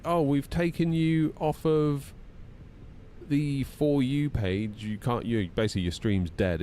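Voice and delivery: slow, prissy official tone; patronising company message; mock corporate voice. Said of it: "TikTok are like".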